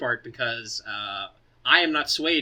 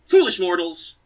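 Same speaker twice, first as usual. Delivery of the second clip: grand villain taunt, louder; booming echoing villain monologue; 4 semitones higher, 6 dB louder, slower than usual. Acted. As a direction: boom it out like a gloating villain.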